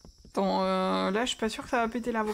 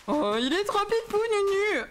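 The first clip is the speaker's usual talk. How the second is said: cooing; 8 semitones higher, slower than usual. Real, not acted. Cooing over cute new pet.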